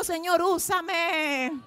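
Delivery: slow, breaking prayer; tearful plea. Real, not acted. Preacher leads the church in a tearful, slow plea. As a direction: let the plea crack with tears, very slow.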